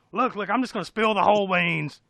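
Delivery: loud, high, frantic warning; mock freak-out. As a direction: spill it all in hammed-up panic. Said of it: "he just instantly freaks out".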